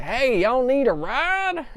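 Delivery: high, slow goofy drawl; Seth Rogen impression. Reviewer imitating the pilot who sounded like Seth Rogen, high goofy drawl. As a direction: lay it on like a chill stoner. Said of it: "I'm not doing my best Seth Rogen impression".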